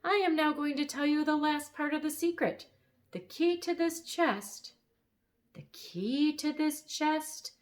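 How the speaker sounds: high, self-important royal voice; King Ken revealing the secret; pompous bird king. Acted. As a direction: announce like a grand little king. King bird's voice held.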